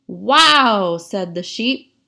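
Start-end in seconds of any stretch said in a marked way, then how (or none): 0.1-1.0 sheep's wow. Acted. Sheep's exclamation read aloud.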